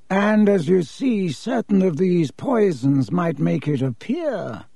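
slow, cool aristocrat; measured and superior; haughty Malfoy. Acted. Malfoy shows Borgin his poisons, cool and slow.

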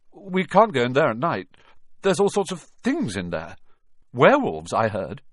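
put-on a boy trying to sound brave; uneasy Malfoy. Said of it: "didn't sound quite as cool as usual".

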